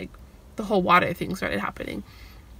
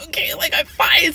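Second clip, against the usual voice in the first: whisper; 8 semitones higher, 5 dB louder than usual. Retold or imitated. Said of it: "I'm just, like".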